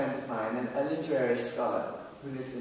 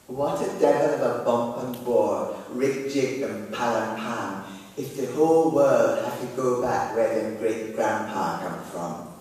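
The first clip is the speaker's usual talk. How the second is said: put-on Jamaican accent; 3 semitones lower, 4 dB louder than usual. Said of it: "I can't do a Jamaican accent".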